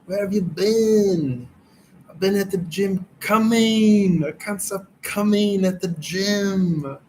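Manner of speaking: a hint of Arnold, hamming up the movie line; Arnold Schwarzenegger impression. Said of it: "latest Arnold Schwarzenegger impression".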